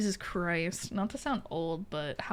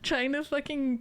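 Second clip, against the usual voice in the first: laughing; 6 semitones higher than usual. Real, not acted. Mocking own weak roar.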